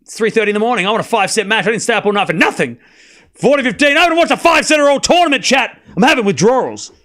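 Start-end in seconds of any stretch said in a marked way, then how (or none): 3.3-6.9 excited outburst. Real, not acted. Streamer craving a five-setter.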